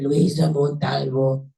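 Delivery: slow, heavily drawn-out name; exaggerated victim imitation. Rescuer imitating how the victim said her name, exaggerated and slow. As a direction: lay the name out slowly and emphatically. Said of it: "I don't talk like that".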